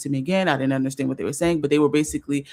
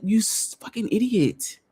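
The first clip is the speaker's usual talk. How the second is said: self-scolding; 5 semitones higher than usual. Retold or imitated.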